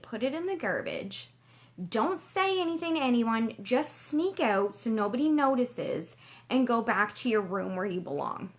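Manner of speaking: a lightly voiced cold inner critic. Her inner critic telling her to leave, lightly voiced. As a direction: speak as the doubting voice in her head. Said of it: "I hear this familiar voice go".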